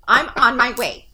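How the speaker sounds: slow, loud mock whine; whiny voice. Reading a text aloud as she hears it, whiny. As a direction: drag it out like a whiny kid. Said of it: "I hear everything in a whiny voice".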